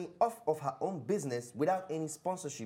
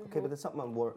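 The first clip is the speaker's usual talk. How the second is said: put-on London accent; 4 semitones lower, much faster than usual. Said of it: "Sorry, I'm using my London accent".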